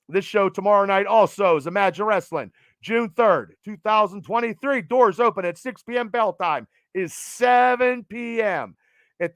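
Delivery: lightly imitated wrestling announcer; Mean Gene Okerlund. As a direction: plug the show with a hint of old ringside interviewer. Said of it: "my Mean Gene Okerlund voice".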